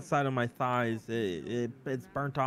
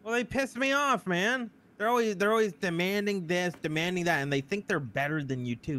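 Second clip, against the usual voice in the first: ranting; 5 semitones higher than usual. Acted. Roleplayed worker complaining to his manager about customers, high ranting.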